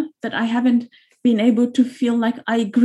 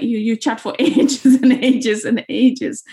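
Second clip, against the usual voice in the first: giggling through the words, slowed down; laughing; slower than usual. Real, not acted. Remembering prank phone calls as kids, laughing. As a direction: let a real laugh break into the line. Recalling childhood phone mischief.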